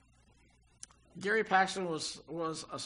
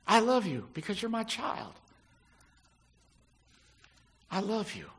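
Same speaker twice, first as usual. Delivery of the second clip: loving reassurance; 4 dB louder than usual. Pretend. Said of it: "words that come out of his mouth".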